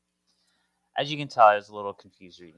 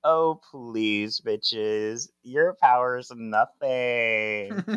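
dismissive villain; much slower than usual. Retold or imitated. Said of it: "she's like".

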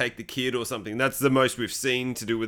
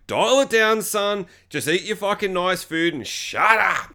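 raised, firm mock scolding; exasperated telling-off; 4 semitones higher, slower than usual. Viewer talking back to the bratty son, exasperated scolding. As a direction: put the kid in his place.

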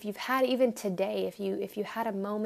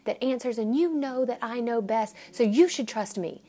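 stern God; 2 semitones higher, 3 dB louder than usual. Retold or imitated. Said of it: "he doesn't look at us and say".

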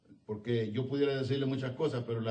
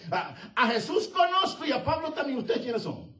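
mocking laugh; 12 semitones higher, 4 dB louder than usual. Demon's mocking reply, laughing.

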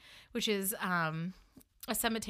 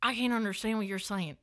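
Southern accent mimic. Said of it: "I don't know if I can mimic it".

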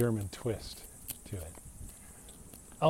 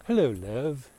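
put-on English accent; 3 semitones higher, 4 dB louder than usual. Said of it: "this is an English thing".

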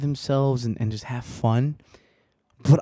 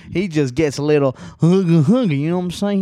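riled up; 9 dB louder than usual. Real, not acted. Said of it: "I gotta chill because your boy".

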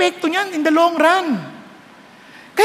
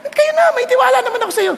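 mother's voice; 7 semitones higher than usual. Retold or imitated. Mother's reply voiced in story.

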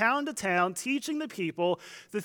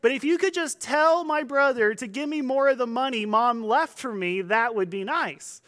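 raised, pleading call to a teacher; mock calling out; 5 semitones higher, 3 dB louder than usual. Man in the crowd asks Jesus about inheritance, mock calling out. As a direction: imitate a heckler making a request, easing off at the end. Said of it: "he's yelling out".

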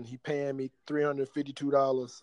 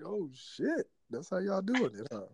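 high, softer voice of intrigued surprise; mock astonishment; 6 semitones higher, 5 dB quieter than usual. Friend retelling his Twitter discovery, intrigued surprise. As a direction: replay being pleasantly shocked, pitched up.

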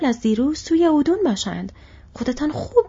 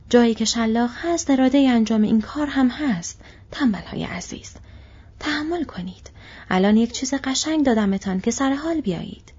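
mocking orc; 4 semitones higher than usual. Orc commander taunting the marching slaves, sneering. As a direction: jeer at them while cracking the whip.

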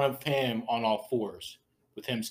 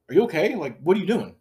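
higher, imitated baffled questioning; questioning stepsister; 5 semitones higher, 5 dB louder than usual. Narrator mimics puzzled questioning of stepbrother, higher-pitched.

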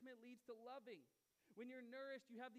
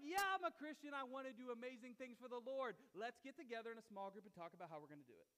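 lampoon a keen churchgoer full of big talk; mock eager Christian; 9 dB louder than usual. Preacher mocking churchgoers who only talk, loud mock eagerness. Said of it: "It's like".

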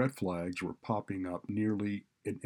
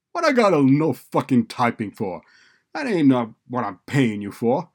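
loud, high street-tough protest; defiant student; 4 semitones higher, 12 dB louder than usual. A narrator's reading. Student protesting the typing class, loud and defiant. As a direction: push back loudly at the administrator. Narrator voices Deshawn protesting.

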